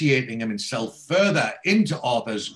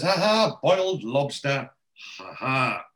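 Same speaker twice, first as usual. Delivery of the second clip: mock laugh; 2 semitones higher, slower than usual. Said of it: "Ali Fraser thinks that's hilarious".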